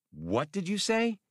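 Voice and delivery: can't believe what he heard; stunned Han. Acted.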